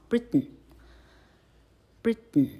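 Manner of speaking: Britain said slowly as "brit-n"; slow syllabic n. Shown as a demonstration. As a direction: drag out Britain ending on a bare nasal. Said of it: "老客从普丁再念念看".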